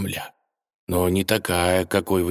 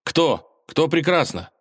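higher, quick and hopeful; eager high question; 8 semitones higher, slower than usual. A narrator's reading. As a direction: rush in hoping for news of the princess. Ivan runs up eagerly.

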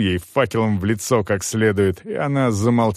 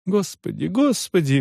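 higher wailing prayer; lamenting; 7 semitones higher than usual. A narrator's reading. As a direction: lament over the burning woman. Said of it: "причитал отец Виталий".

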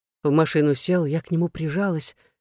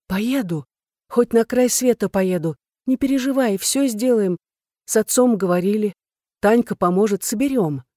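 high, emphatic promise; fervent, louder and pitched up; eager reassurance; 5 semitones higher, 4 dB louder than usual. Acted. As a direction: convince them all will be fine. Woman eagerly reassures her lover.

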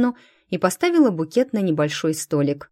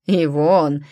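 насмешливо протянул; 5 dB louder than usual. Acted. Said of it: "насмешливо протянул мужчина".

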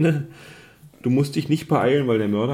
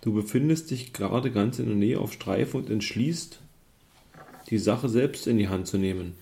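story narration. A narrator's reading. Liest Spielbuch vor.

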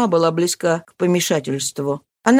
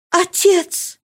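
high frightened cry; trembling; 10 semitones higher than usual. Acted. Marie frightened by her father: trembling cry. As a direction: call to him, voice shaking. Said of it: "дрожащим голосом".

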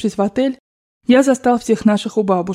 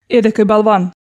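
mildly raised scolding voice; angry cry; 3 dB louder than usual. Acted. Grandmother scolding the Frenchman after losing, angry cry. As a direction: scold him with restrained force. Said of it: "крикнула бабушка".

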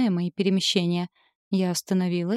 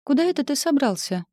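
disappointed question; 7 semitones higher than usual. A narrator's reading. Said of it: "разочарованно спросила я".

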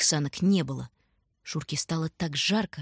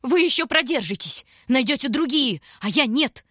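higher and louder, a keening plea; wailing cry; 7 semitones higher, 5 dB louder than usual. A narrator's reading. Starving stranger pleading with the children, wailing cry. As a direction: wail it like a beggar. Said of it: "голосил тот".

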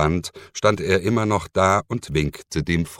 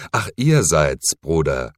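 mildly surprised exclamation; a little startled; 3 dB louder than usual. Acted. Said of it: "rief er überrascht aus". (leicht überrascht ausgerufen)

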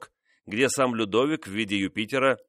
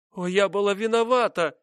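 much higher, anguished confession; cry; 11 semitones higher, 3 dB louder than usual. Acted. Mistress admitting her fault to the king, high anguished cry. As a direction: cry out the guilt in despair. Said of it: "вскрикнула она".

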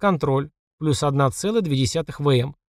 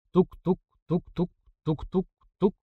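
heartbeat; 3 semitones higher, 5 dB quieter, slower than usual. A narrator's reading. Heartbeat after testosterone boost.

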